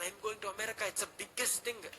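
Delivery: put-on a light touch of a thrilled kid; retold boyish excitement. Boy bragging to himself about America, mildly excited. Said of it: "నేను ఎగిరి గంతేసిన".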